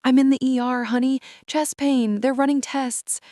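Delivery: high, shaky frightened voice; trembling voice. Acted. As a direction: voice trembling with fear. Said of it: "voice trembling".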